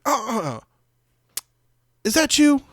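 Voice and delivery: imitating a starstruck stranger; excited lady. Recognizing the rapper from last night, a high mock squeal.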